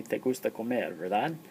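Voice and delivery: "Te gusta comer" said level like a statement, with just "verdad" tacked on as the question; flat statement tune. Shown as a demonstration. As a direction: keep "comer" level and simply add "verdad?". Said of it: "you don't raise your voice".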